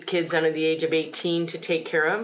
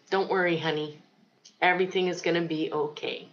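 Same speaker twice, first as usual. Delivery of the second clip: tender reassurance; 3 dB quieter than usual. Retold or imitated. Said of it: "she looked at me through her tears and she said".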